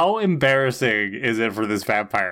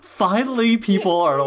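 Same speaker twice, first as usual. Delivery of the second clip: pleased Anya; 7 semitones higher than usual. Retold or imitated.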